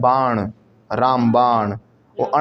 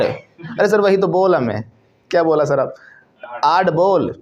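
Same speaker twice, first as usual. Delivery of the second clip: put-on mild Tamil accent; 2 semitones higher, slower than usual. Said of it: "ये Tamil Nadu accent है".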